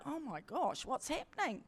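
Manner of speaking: hushed, awed whisper. Retold or imitated. To friends as Jesus puts a dome over them, awed whisper. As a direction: breathe it out in wonder. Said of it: "kind of whispering".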